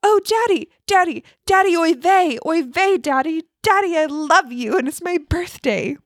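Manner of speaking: put-on high, excited little boy voice; a small boy calling for his daddy; screaming little boy. Little boy shrieks at the talking loaf, high and excited. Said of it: "screamed at the bread".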